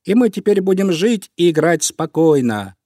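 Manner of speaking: high, loud happy declaration; joyful animals. A narrator's reading. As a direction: announce good news to cheering friends. Animals celebrate the cat's departure.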